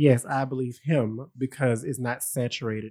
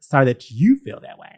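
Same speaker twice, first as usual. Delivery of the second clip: mocking fake apology; 5 dB louder than usual. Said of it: "That sounds familiar".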